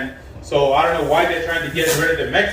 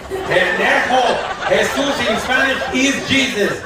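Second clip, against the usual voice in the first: mock exasperated Spanish-accented scold, higher; 7 semitones higher than usual. Gardener scolding the confused caller in a mock Spanish accent.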